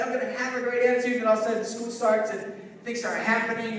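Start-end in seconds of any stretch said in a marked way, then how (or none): 0.0-1.2 mock eager student. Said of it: "We're so excited when school starts".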